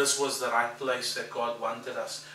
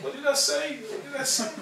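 much higher, half laughing; panicked high thought; 14 semitones higher, 6 dB louder than usual. Retold or imitated. Pastor seeing the wife cry, high comic panic. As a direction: squeak it in comic alarm.

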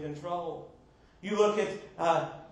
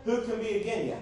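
southern accent; 2 semitones higher than usual. Shown as a demonstration. Preacher jokes with the congregation about God being for you, southern accent. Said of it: "that's in the southern accent".

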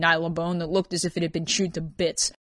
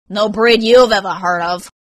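tag; 3 semitones higher, 9 dB louder than usual. Acted. Irate customer snaps back at clerk.

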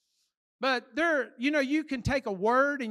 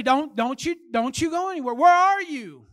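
higher, louder scolding parent; parent calling out; 4 semitones higher, 8 dB louder than usual. Retold or imitated. Parent calls after a child who wandered off, mock yell. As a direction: imitate a parent hollering for a kid.

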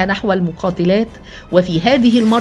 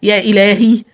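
louder cry of alarm; first shocked gasp of words, raised volume; horrified; 5 dB louder than usual. A narrator's reading. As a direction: exclaim in horror, still holding some back. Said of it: "في ارتياع مرددة".

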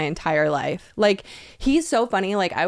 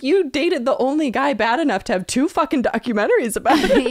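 higher, louder, laughing impression; laughing retold roast; 7 semitones higher, 4 dB louder than usual. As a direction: roast her through laughter. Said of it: "he's like".

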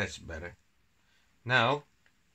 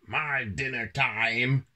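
slow, stretched-out cat voice; purring cat; 4 semitones higher, 3 dB louder, slower than usual. A narrator's reading. Kitchen cat finding mice on the table, slow purr. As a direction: relish it slowly as a hungry cat. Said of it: "purred the kitchen cat".

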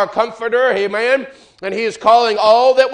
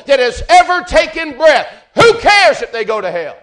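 loud, high sustained preaching; preaching at full force; 3 semitones higher, 4 dB louder than usual. Acted. Preacher urging dear friends, loud and high. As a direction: drive the care of the Lord home, full voice.

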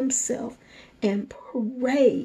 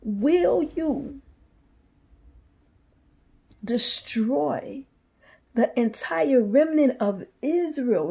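raised, pleading prayer to God; pleading cry; 5 semitones higher, slower than usual. Retold or imitated. Ezekiel face down begging God to spare Israel, pleading. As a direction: cry out to the Lord for mercy. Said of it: "and he cried out".

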